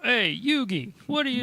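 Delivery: botched Boston tough-kid impression; mock Boston accent. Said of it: "he has a Boston accent".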